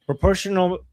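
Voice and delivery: Proportional said high and loud as a quoted term; stressed word. Shown as a demonstration. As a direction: lift Proportional up as a key word. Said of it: "see here, proportional is".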